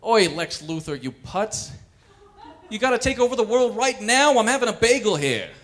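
put-on annoyed New York Jewish accent, interrupted at breakfast. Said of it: "Jewish Superman".

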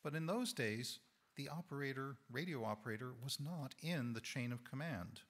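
hoarse, strained voice; losing voice. Real, not acted. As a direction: voice giving out mid-sentence. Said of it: "Sorry, losing my voice here".

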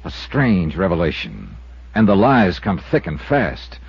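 slow, teasing announcer read; episode preview. Acted. Star teasing listeners about tomorrow's episode, slow promo voice. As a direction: draw them in for tomorrow, slowly.

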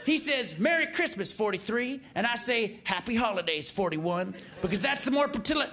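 lightly voiced presidential impression; a president stumbling over his own words; George W. Bush. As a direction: read a folksy letter from one president to the next. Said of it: "the letter from George W".

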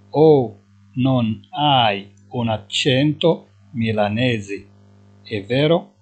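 each syllable drawn out, slowly; slow dictation. Shown as a demonstration. Teacher to Moroccan students, slowly dictating Italian. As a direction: spell it out slowly for learners. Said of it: "teacher repeating driver line".

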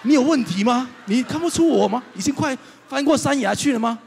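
high, loud, comic outrage; hammed-up pastor exasperation; mock exasperated yell. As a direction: act out gasping indignation at the kid. Exasperated retort, told for laughs.

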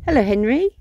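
loud, high call of "hello". Real, not acted. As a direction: call the greeting across. Calling out a greeting.

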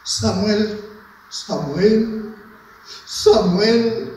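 calling a name, each call a little stronger. Acted. God calling the boy Samuel, lightly acted call. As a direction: call out to someone, building lightly.

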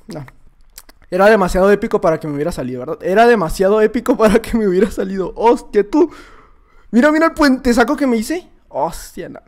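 ordinary talk

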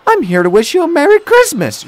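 high, loud, cheery woman's reply; reply kindly in a high voice. A narrator's reading. Young woman answers Thomas with a Christmas wish, kindly. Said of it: "she replied kindly".

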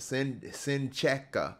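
Sincheka sounded out slowly, after a false start on Sin-; careful name pronunciation. Shown as a demonstration. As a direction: try out Sincheka slowly, breaking after the first syllable. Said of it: "I think that's how you say it".

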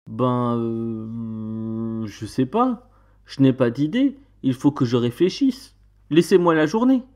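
hesitant, drawn-out hedging; stalling. Acted. Man playing for time with the witch, stalling. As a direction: drag out a mildly unsure answer. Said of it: "Moi, pour gagner du temps".

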